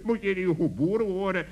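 a teasing laugh; mocking laugh. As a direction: laugh at the farmer, then tease. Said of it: "niet om te lachen".

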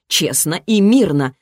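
slow phrase with pointed pressure on "мирно"; stress on мирно. A narrator's reading. Mage correcting the children, pressing hard on "мирно". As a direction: lean on "мирно", drawing it out slowly. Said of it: "с нажимом на мирно".

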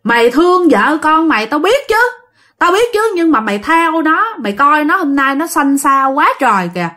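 imitating a master scolding a spirit. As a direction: argue back firmly. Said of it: "ông la, ông nói rằng".

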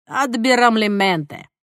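slow, carefully voiced Spanish word; Spanish pronunciation. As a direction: lean into the Spanish sounds.

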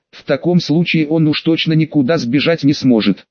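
ordinary delivery, nothing marked

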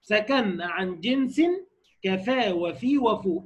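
slow chanted recitation of a poem; slow measured verse chant; recited verse. Shown as a demonstration. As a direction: intone each line slowly like a memorized text. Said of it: "قال".

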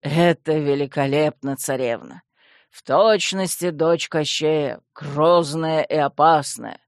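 slow, low skeleton voice; lightly voiced skeleton in solemn praise; admiring skeleton. Skeleton servant praises the princess's new look, admiring.

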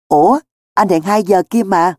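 innocently taken aback; wide-eyed surprise. Acted. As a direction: correct them in mild astonishment. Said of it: "Mắt Cẩm Phô tròn xoe".

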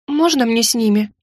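usual speaking voice

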